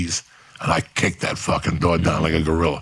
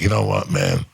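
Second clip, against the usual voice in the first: much lower, cold tough-guy voice; menacing tough guy; 11 semitones lower than usual. Retold or imitated. Facing the armed guy, a low cold tough-guy line. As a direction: drop the voice low like a threat. Retold threat before shooting.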